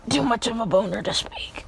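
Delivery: breathy whispered aside. Real, not acted. Joking to chat, a whispered aside. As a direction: whisper it like a guilty secret.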